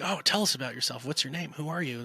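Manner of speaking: mock-eager chatter; eager questioning. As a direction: imitate nosy girls crowding a newcomer. Girls crowd round the newcomer.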